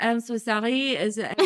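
softly put-on French accent; mock apology in a French accent. Excuse to do the Dauphin's accent, playful French accent. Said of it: "excuse to do that accent myself".

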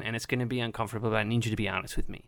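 low, quick, hushed seriousness; grave and quiet. Acted. Mother's grave talk to son.

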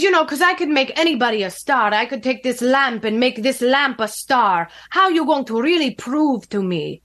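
lightly imitated Russian accent. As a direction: boast in a mock Russian accent. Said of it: "had a very heavy Russian accent".

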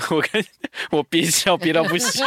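trying not to laugh. Real, not acted. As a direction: hold back a laugh as you speak. (忍笑说话)

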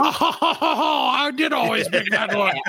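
high, affected British fake laugh; fake-laugh grandly in mock proper British; proper British accent. Posh answering her friends, high mock-posh British laughing. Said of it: "like, the proper British".

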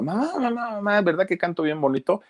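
put-on high-pitched child seeking praise; imitated small girl, pleading for approval; little girl. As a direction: pipe up like an eager little daughter. Little Lupita begging her mother's praise.

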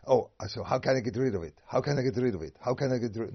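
hammed-up anxious begging; mock desperate plea. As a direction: act out the frantic wish to be rid of it. Mock anxious self-talk.

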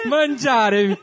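hammed-up Italian "Mangiare" with rolled r; Italian accent. Shown as a demonstration. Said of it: "Em italiano".

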